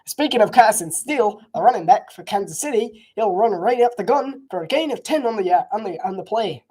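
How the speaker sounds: put-on light Australian accent, sportscaster call; Australian accent commentary. Streamer jokingly calling the game, mild Australian sportscaster. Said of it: "commentate in an Australian accent".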